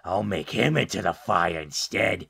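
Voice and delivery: lightly voiced plotting hermit; slow down as the dark plan forms; measured, menacing recluse aside; scheming hermit. Plays Taylor plotting to himself.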